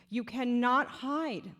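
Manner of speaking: rally the room, the voice rising with real feeling; emotional rallying call. Real, not acted. March founder urging the Jewish audience to show up Saturday, impassioned. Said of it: "I'm getting emotional".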